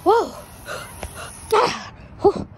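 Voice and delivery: high, loud startled whoa; startled yelp. Acted. Jolted by the gadget zapping his hands, startled. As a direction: yelp in sudden surprise, then puff out.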